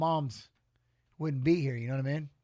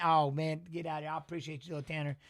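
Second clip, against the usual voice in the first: teary; 3 semitones lower, 6 dB quieter than usual. Real, not acted. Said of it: "Sorry, man, I got teary".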